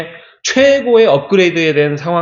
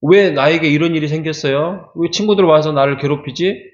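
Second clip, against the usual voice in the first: complaining to God. Retold or imitated. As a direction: whine at God like he's been wronged. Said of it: "막 그러면서 불평을 엄청 쏟아내요". (하나님께 불평을 쏟아내듯)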